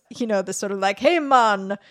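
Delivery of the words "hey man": imitating a bad white person's Jamaican accent, lightly. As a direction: toss off a mock Jamaican greeting. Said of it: "white person's Jamaican accent".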